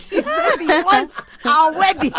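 high, slow teasing call; excited call. Real, not acted. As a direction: call out to mom gleefully. Calling out to mom teasingly.

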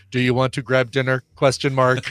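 level tune, no rise on "dinner"; monotone dictation. Shown as a demonstration. Co-host dictating a text to phone, somewhat monotone. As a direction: dictate it evenly, punctuation spoken as words. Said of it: "somewhat a monotone voice".

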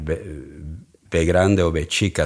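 "be grande o be chica" in Spanish sounds; Spanish pronunciation. Shown as a demonstration. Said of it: "they say in Spanish".

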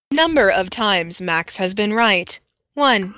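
flat automated robot voice. Pretend. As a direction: read it like a computer counter. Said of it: "That's scary".

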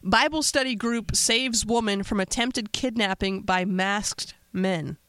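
slow, spaced-out news headline; headline read. Real, not acted. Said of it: "So here's the headline".

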